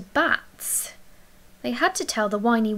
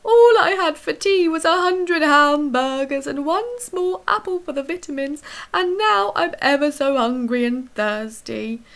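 loud, higher monster complaining; whiny creature; 6 semitones higher, 6 dB louder than usual. A narrator's reading. The thing complaining to Emily Brown about hunger, loud whiny creature. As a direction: whinge like a hungry big baby beast. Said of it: "grumbled the thing".

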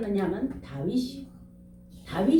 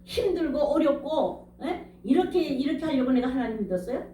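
raised, aggrieved questioning of God, half-acted; retold reproach; 3 semitones higher than usual. Preacher replaying his bitter questions to God, mild mock reproach. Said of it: "그 하나님이 계시다면".

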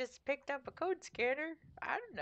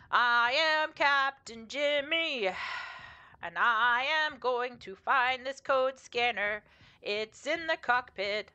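slow, proud announcing of the captain; lightly voiced self-important captain; 4 dB louder, slower than usual. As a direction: declare it grandly and slowly. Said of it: "Jimmy starts talking like this".

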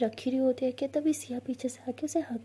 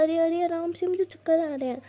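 alarmed laugh; 5 semitones higher, 4 dB louder than usual. Acted. Dizzy mother being spun.

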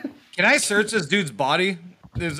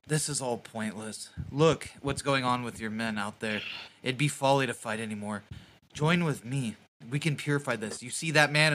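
soft persuasive cult leader; 4 semitones lower, 7 dB quieter than usual. Acted. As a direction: murmur it like a soft-spoken zealot. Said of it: "I'm like".

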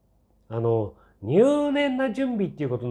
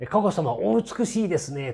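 mockingly adoring, pitched up; mock gushing praise; 5 semitones higher than usual. Quoting flattering articles on the princess, mock gushing. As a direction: imitate fawning admiration in a higher pitch. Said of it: "全部アゲアゲ記事".

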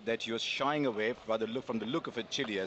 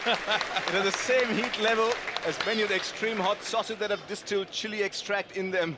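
laughing while reading; 6 semitones higher, 4 dB louder than usual. Real, not acted. Reads chili facts while laughing.

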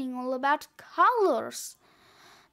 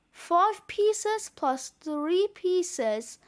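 mock-barked sum; 3 semitones higher, much slower than usual. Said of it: "barked Barky".

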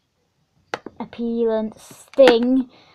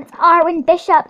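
excited fangirl; 3 semitones higher, 5 dB louder, faster than usual. Acted. Excited fan announcing character.

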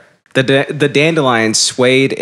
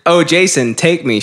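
panting; 6 semitones higher than usual. Acted. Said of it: "she panted".

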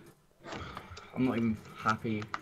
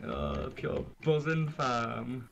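put-on glasgow street accent; much slower than usual. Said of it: "buzzing off coffee".

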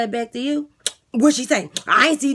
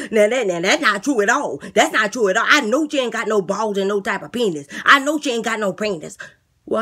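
eager inmate talking up his plan; lisping boastful inmate; 3 dB louder than usual. Acted. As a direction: beg the guard like a cocky jailbird. Inmate denies claim.

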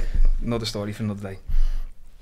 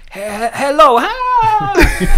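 high stammering greeting dissolving into laughter; shy broken hello; 12 semitones higher, 8 dB louder, much slower than usual. Retold or imitated. Non-English speakers trying to greet him, high stammering laughing hello. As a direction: mimic a shy learner's hello.

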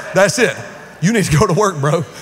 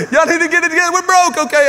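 playful scolding; 9 semitones higher, faster than usual. Acted. Teasing the congregation.

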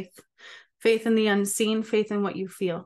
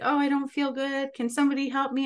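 higher, whining plea for help; whiny sick person; 6 semitones higher than usual. Retold or imitated. Forum users pleading for help in a higher whine. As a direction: mimic a sick stranger asking the forum for help. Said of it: "they're like".

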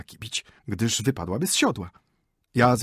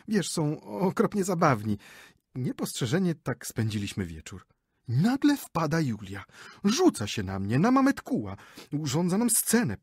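higher, gushing chatter; boastful lady; 4 semitones higher, 3 dB louder than usual. Acted. Wife boasts to husband about her Tatar guide, higher and chatty. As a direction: show off how you ruled him.

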